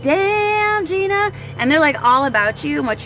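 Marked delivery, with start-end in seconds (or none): 0.0-1.3 high, wowed exclamation; impressed damn Gina. Retold or imitated. People admiring a talented friend, high and wowed. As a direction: sound blown away by her. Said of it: "people are just like".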